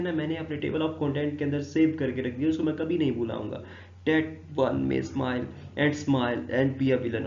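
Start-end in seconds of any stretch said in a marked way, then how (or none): 4.1-7.3 slow verse reading. Acted. Reads the verse aloud.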